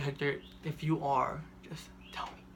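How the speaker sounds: mock tearful plea sinking into a whisper; plead, dropping to a whisper on the last words; imitated tearful plea. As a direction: imitate a crying mom, ending very hushed. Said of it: "then she starts crying".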